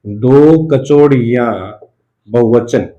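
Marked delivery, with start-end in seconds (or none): 0.1-1.5 "दो कचौड़ियां" said slowly, leaning on दो; slow emphatic repeat. Shown as a demonstration. Teacher repeating the phrase slowly for students to note. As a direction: drag out दो कचौड़ियां for dictation. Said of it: "उसने".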